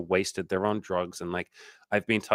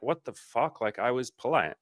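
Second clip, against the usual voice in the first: high, fairly soft imitation of a woman; hurt disbelief; 4 semitones higher, 4 dB quieter than usual. Imitating a woman insulted after declining politely, taken aback. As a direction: protest quietly in a lifted voice.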